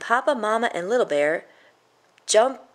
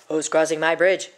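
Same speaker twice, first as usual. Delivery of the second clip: a troll calling out, a bit louder; troll's shout; 5 dB louder than usual. Acted. Troll challenging a traveler on his bridge, mildly shouted. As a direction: challenge whoever steps on the bridge. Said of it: "shouted the troll".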